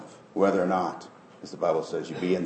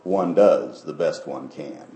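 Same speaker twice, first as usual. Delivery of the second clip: offended sparrow; 5 semitones lower, slower than usual. Retold or imitated. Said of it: "with this offended voice".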